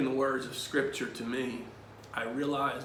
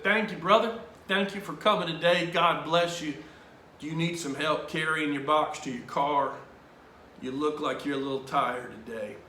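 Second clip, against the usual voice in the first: hearty, caring priest offering help; Father Tim. Retold or imitated. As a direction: greet a brother with hearty kindness. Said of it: "trying to do my best Father Tim impression".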